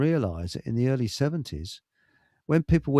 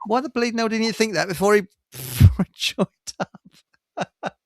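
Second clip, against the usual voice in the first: exasperated disbelief; 6 semitones higher, 3 dB louder than usual. Real, not acted. Mock outrage at the veteran.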